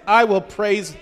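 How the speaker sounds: resolute vow of praise; firm declaration. Shown as a demonstration. Preacher declares praise in the sanctuary, resolute. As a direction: proclaim it with conviction, punching the words. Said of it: "means it's not like".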